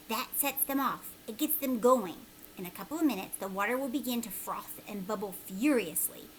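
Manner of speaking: lightly voiced old man, eager; a hint of a conspiratorial old man; old man giving instructions. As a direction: instruct him like a mysterious old stranger.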